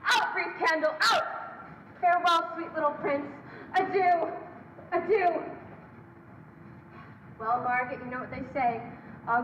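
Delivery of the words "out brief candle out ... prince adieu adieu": hammy stage actor reciting the Bard; theatrical declamation. Acted. Villain declaims Shakespeare over victim.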